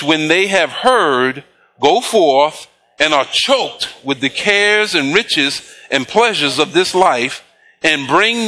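slow, measured King James reading; scripture reading. Acted. Pastor reading verse fourteen to the congregation, slow and measured. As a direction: draw the verse out slowly, word by word.

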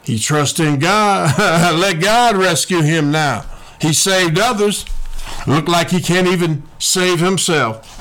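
mocking onlookers. Onlookers making fun of Jesus on the cross, mildly mocking. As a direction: lightly jeer at a helpless man. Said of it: "They're making fun of him".

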